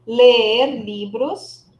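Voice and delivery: Ler livros very slow, the e of Ler stretched; slow model phrase. Shown as a demonstration. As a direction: stretch the vowel of Ler slowly. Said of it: "eu vou falar o E duas vezes". (Ler com o E longo, devagar)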